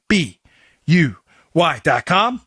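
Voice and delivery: slow, spelled-out cheer chant; cheerleader. Acted. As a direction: spell it out like a pep rally. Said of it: "Sound like a cheerleader".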